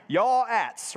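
"Yaw-ats" high and drawn out, like Southern y'all; Southern-sounding Hebrew word. Shown as a demonstration. Preacher jokes to congregation, "Yaw-ats" high like a Southern word. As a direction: hit a high YAW in "Yaw-ats", then drop to ats. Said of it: "It sounds like a Southern word".

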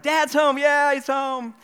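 very high, loud mock children's cheer; excited kids cheering. Kids cheering as dad comes home, excited imitation. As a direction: shout it like overjoyed little kids. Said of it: "If your parents are like".

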